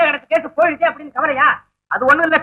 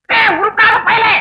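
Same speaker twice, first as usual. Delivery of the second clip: crying scold; 7 semitones higher, slower than usual. Acted. Father scolding son, crying.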